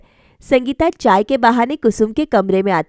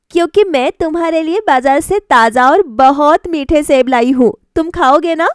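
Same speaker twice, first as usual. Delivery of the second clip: put-on higher, earnest young bride's voice; young wife Sangeeta; 4 semitones higher than usual. Bride questions mother-in-law about fruit, higher girlish voice. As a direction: ask your mother-in-law gently, pitched up.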